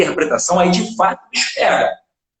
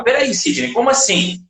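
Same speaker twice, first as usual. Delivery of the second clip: puzzled student; 6 semitones higher than usual. Retold or imitated. Imagined student interrupts teacher.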